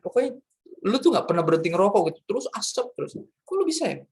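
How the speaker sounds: high, astonished teasing; amazed friend. Retold or imitated. Old friends marvel that he quit smoking, amazed. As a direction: gasp at how he changed.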